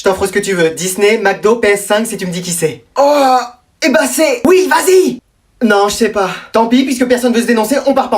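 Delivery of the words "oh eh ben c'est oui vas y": high-pitched excited wavering; tempted, eager outburst. Acted. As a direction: give in to the bribe. Child tempted by bribe to confess.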